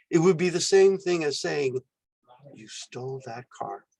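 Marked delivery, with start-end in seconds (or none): 2.5-3.9 1 disapproving tone. Shown as a demonstration. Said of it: "with a new punctuation mark".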